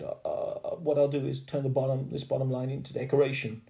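hesitant schoolgirl. A narrator's reading. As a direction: think up a fix aloud as a girl. Sheila thinking of a fix.

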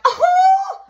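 very high, loud mocking "Oh!"; loud laughing whoop. Shown as a demonstration. Demonstrating how to laugh at someone trying to irritate you. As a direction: show how to laugh off a taunt. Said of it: "all you gotta do is just do your thing and be like".

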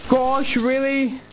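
high panicked string of nos; scared horror game streamer. Real, not acted. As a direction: panic as the animatronic gets you.

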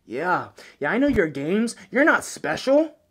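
shouting interrogator, high and loud; furious bad-cop yelling; calm turning angry. Interrogating captive elf.

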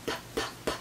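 "P, p, p" as bare voiceless puffs, very soft; popped P sounds. Shown as a demonstration. Knitter shows off the alliteration, puffing "P, p, p" without voice. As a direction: pop each "P" with air only, no vowel. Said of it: "All the P's".

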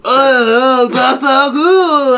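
very loud, high hammed-up imitation; mimicking the stranger. Him in the blazer imitating the stranger, hammed-up. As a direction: bellow it slowly as a caricature. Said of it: "I'm gonna be you".

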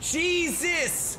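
high, loud startled cry; shocked exclamation. Real, not acted. Gamer startled by a wild play, shocked cry. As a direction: blurt it out, caught off guard.

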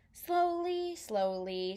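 high storyteller's "slowly"; drawn-out high word. A narrator's reading. Reader showing the peddler's careful walk, high and drawn out. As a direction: lift the word high and stretch it.

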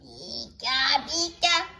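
subdued creature call at normal volume; toned-down creature cry. Pretend. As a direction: repeat the cry without the piercing height. Repeats the cry after complaint.

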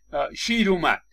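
a mild startled exclamation, lion spotted; lightly voiced surprise, like seeing the lion appear; startled at the zoo. At the zoo by the cages, a mild startled cry. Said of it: "یهو یکی از ماها میگه".

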